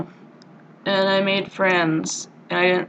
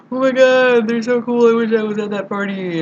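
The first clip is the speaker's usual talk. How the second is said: gushing excitement; 6 semitones higher, 4 dB louder than usual. Retold or imitated. Watching a party movie alone in the room, gushing. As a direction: imitate wishful, excited fawning over a film.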